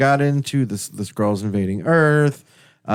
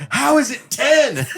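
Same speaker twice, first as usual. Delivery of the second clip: incredulous, high and laughing; laughing disbelief. Retold or imitated. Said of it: "Justin almost lost his mind".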